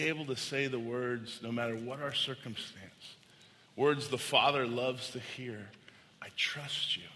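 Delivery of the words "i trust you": soft, slowing declaration of faith; quiet, sincere trust. Acted. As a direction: let it settle softly, like a prayer. Closing words of trust to God.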